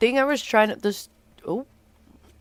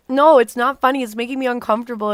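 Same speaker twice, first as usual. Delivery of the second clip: upset protest; 5 semitones higher, 4 dB louder, faster than usual. Retold or imitated.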